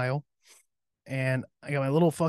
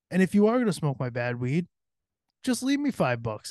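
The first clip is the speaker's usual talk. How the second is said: exasperated rant; 6 semitones higher than usual. Real, not acted. Ranting about dad smoking weed.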